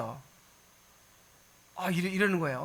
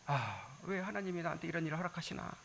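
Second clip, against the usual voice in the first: complaining mutter; 3 semitones lower, 12 dB quieter than usual. Retold or imitated. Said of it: "원망 같은 게 생기잖아요".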